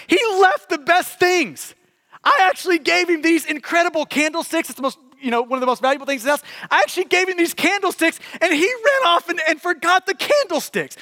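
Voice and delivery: the bishop marveling at what was left behind; amazed bishop. Retold or imitated.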